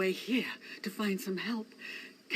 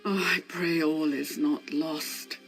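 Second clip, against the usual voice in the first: tearful prayer; 5 semitones lower than usual. Acted. Worried villager, crying heard.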